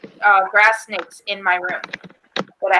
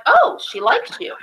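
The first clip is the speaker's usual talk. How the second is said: neighbor's voice; 12 semitones higher than usual. Retold or imitated. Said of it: "And he's like".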